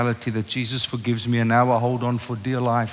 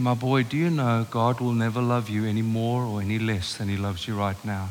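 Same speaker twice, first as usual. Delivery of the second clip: tender; 4 semitones lower, 4 dB quieter than usual. Retold or imitated. Father consoling crying teenage son.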